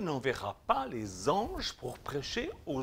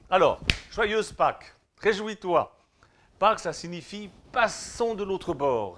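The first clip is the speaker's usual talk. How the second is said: loud, festive Easter proclamation; joyful preaching; 7 semitones higher, 11 dB louder than usual. Acted. Preacher wishing his flock happy Easter, loud and joyful. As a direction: cheer them into the celebration. Easter greeting shouted to congregation.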